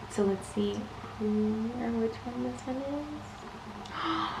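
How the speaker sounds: soft, slow suspenseful hush. Real, not acted. Collector hushing before the reveal. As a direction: hold your breath as the box opens.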